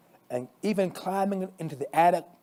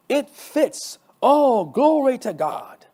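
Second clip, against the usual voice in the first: excited; 9 semitones higher, 7 dB louder, much slower than usual. A narrator's reading. Cheering success.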